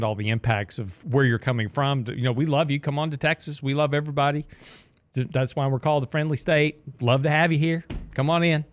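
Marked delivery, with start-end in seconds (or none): 2.1-7.8 a hint of Bush welcoming folks; George Bush impression. Host welcoming newcomers to Texas, a light Bush impression. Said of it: "That's my George Bush impression right there". 8.1-8.6 a light Bush-style welcome; lightly voiced Texan greeting of a president; George Bush impression. Host closing a pitch to newcomers with a light Bush-style welcome. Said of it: "That's my George Bush impression right there".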